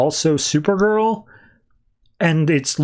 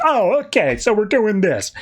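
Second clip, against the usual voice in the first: high, mock-offended retort; hammed-up indignant high voice; offended husband; 6 semitones higher than usual. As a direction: huff like a bickering spouse. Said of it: "he's like".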